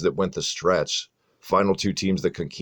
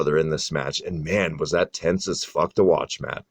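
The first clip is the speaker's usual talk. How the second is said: winded after a long list; talking short of breath; 2 semitones lower than usual. Real, not acted. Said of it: "Ooh, I'm out of breath".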